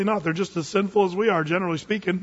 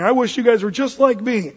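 earnest wish; 5 semitones higher, 5 dB louder than usual. Acted. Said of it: "Paul's standing there in chains saying".

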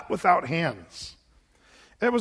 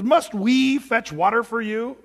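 louder, slowed indignant retort; a mock-tired prophet snapping at the crowd; Moses yelling; 3 semitones higher, 5 dB louder, slower than usual. Moses yelling at the thirsty people, indignant. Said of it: "So he yells at the people".

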